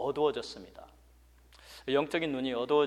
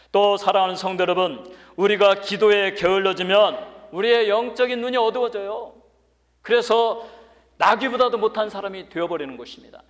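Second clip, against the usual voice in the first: loud, raised pulpit voice; forceful preaching; 6 semitones higher, 11 dB louder than usual. Real, not acted. Preacher warns the congregation against lazy prayer, forceful preaching. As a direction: warn the flock at full voice.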